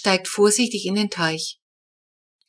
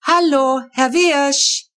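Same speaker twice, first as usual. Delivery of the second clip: higher, louder urgent call; 6 semitones higher, 4 dB louder, much slower than usual. A narrator's reading. Papa trying to rouse the motionless neighbour, loud and urgent. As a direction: call him hard to wake him. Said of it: "ruft Papa".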